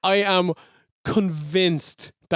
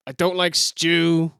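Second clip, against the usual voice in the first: slow and sheepish; deadpan mock shyness; sheepish heel line; shy, slow mock promo; slower than usual. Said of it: "It was a shy promo".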